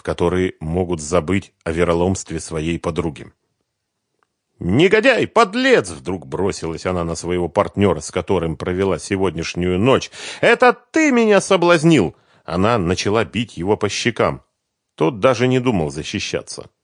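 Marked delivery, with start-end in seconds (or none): 4.6-5.9 high, loud furious cry; furious outburst. Acted. Svetlana turns on the bass guitarist, furious and loud. She attacks her partner. 10.4-12.2 high, loud furious cry; furious outburst. Acted. Svetlana turns on the bass guitarist, furious and loud. She slaps him accusing.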